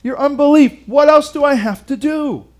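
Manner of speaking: pleading at people who won't believe; exasperated Jesus. Pretend. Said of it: "if I were Jesus, I might have said".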